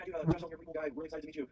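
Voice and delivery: high mock-gushing voice; imitating an overfriendly drunk. Interviewee mimicking the drunk man's flattery, high gushing voice. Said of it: "He's like".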